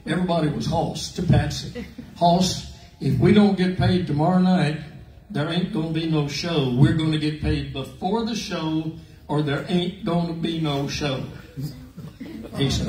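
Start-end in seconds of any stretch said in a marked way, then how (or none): 0.0-11.2 mock tough demand. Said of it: "got in his face and she said".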